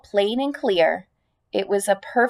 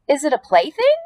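eager pig voice; 5 semitones higher, faster than usual. Acted. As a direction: ask it like a curious child. Wilbur asking eagerly.

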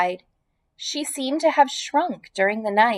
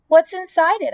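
higher, eager pig voice; excited question; 8 semitones higher, 3 dB louder than usual. Acted. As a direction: blurt it out curious.

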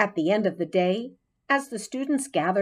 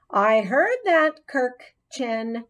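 stern scolding; 5 semitones higher, 4 dB louder, slower than usual. A narrator's reading. Teacher scolding Kirk.

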